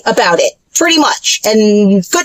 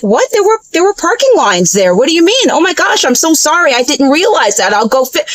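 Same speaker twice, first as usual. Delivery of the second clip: surprised apology; 3 semitones higher than usual. Retold or imitated. Her flustered retold reply.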